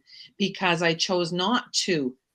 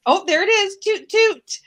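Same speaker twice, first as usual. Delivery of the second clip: high, louder mock British old lady; imitating a British lady, pitched way up; 11 semitones higher, 5 dB louder than usual. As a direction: trill it in delight like a British old dear. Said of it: "She had this fantastic British accent".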